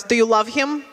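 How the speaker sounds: lightly voiced Russian-accented mother. Mother questioning daughter about new husband, Russian accent. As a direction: ask it as an immigrant mom with a Russian accent. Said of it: "my mother goes".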